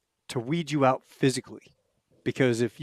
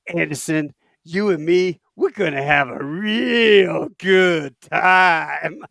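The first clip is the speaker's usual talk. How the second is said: menacing staff sergeant; 4 semitones higher, 6 dB louder, slower than usual. Retold or imitated. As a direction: promise trouble, slowly and calmly. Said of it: "he goes".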